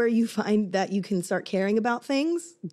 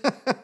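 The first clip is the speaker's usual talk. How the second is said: pretend barf; 4 semitones higher than usual. Imitates barfing on cue.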